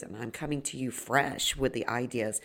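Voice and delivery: hoarse gravelly voice; worn, gravelly voice. Real, not acted. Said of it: "maybe not fresh in this gravelly voice".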